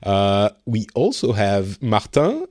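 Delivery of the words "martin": Martin said the French way, mar-TAN with a nasal end; French accent. Shown as a demonstration. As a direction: say Martin in French, stress on the last syllable. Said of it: "whose name I say with a French accent".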